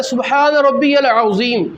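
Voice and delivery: العظیم with the emphatic Arabic ظ, drawn out slowly; correct pronunciation. Shown as a demonstration. Teacher showing how the tasbih in ruku is pronounced, correct pronunciation. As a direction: slowly model العظیم with a heavy ظ, unlike ز or ض. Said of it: "ضا کا جو مخرج ہے، تلفظ ہے".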